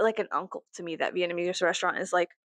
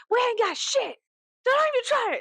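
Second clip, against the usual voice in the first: rude server impression; 14 semitones higher, 3 dB louder than usual. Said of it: "she's like".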